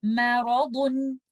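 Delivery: मैरादुन slow, light मै, heavy रा; correct recitation. Shown as a demonstration. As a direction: model मैरादुन slowly and correctly. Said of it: "आप इसको इस तरह से पढ़ेंगे". (मैरादुन सही अदायगी, धीरे)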